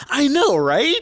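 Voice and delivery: high, loud mock agreement; put-on high voice, loudly commiserating; mock exasperated agreement. Acting out the character's agreeing reply.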